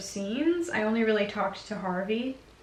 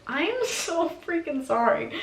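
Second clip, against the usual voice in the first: high, slow, over-apologetic; mock frantic apology; 6 semitones higher than usual. Apologizing after elbowing the singer, high and slow. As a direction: drag it out like a panicked apology. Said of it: "I had to turn around and be like".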